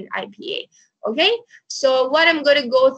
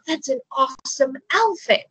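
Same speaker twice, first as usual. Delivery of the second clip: genuinely impressed, pitched higher; mean the compliment honestly; an honest compliment that ends on a fall; sincere compliment; 4 semitones higher than usual. Shown as a demonstration. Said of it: "the intonation plays an important role".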